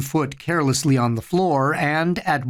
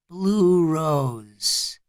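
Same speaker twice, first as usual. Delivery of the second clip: muffled. A narrator's reading. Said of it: "Eddie said in a muffled voice".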